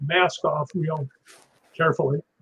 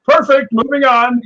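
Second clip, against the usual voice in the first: "Perfect, moving on" said higher, louder and slowly, like a breezy director; imitating the director; 7 semitones higher, 5 dB louder than usual. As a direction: play the director deadpanning "Perfect, moving on" over the hurt stuntman. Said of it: "Richard turns around and goes".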